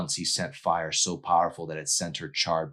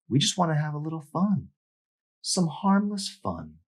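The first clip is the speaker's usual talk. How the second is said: mocking mean girl; 12 semitones higher than usual. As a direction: tease him with fake sweetness. Mandy mocking, sing-song.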